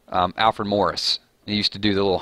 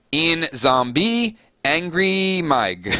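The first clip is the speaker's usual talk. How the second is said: slow mock Norwegian phrase; attempted Norwegian; 5 semitones higher, much slower than usual. Shown as a demonstration. Reading a Norwegian translation to viewers, slow Norwegian accent. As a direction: sound it out slowly like Norwegian.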